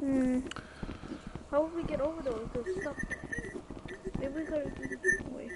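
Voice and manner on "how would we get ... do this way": garbled, muffled mic sound; underwater. Real, not acted. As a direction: voice like it's underwater. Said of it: "your voice sounds really, um, like, garbled".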